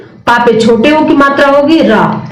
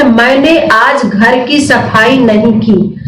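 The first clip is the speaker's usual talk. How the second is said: slowed down, reading the example sentence clearly; slow dictation; slower than usual. Shown as a demonstration. Teacher slowly reading the exam sentence to students. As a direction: read it out slowly, word by word. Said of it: "इसमें आपका वाक्य".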